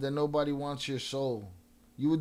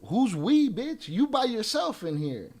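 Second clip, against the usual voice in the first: louder, higher snap at the troll; angry retort; 5 semitones higher, 3 dB louder, slower than usual. Real, not acted. Rapper on stream firing back at a troll, angry. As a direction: bite back hard, high and loud.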